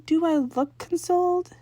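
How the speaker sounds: a dry pointed question from the big sister; sarcastic sister. Acted. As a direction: sister with arms crossed mocking his claim, slow and dry. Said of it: "frowned and crossed her arms".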